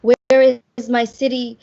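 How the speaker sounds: measured, deliberate poetry reading; spoken-word poem read with weight. Acted. Reads her poem aloud.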